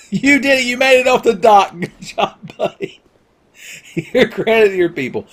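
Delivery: high, laughing sarcastic cheer; laughing mock congratulations, high; mocking praise, laughing. Mock praise of failed players, laughing.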